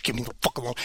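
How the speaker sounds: low, very soft growl; low muttered voice. Retold or imitated. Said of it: "He's like".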